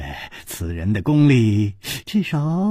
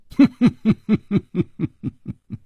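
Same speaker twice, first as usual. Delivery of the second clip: light laugh; 5 semitones higher than usual. A narrator's reading. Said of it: "笑了笑".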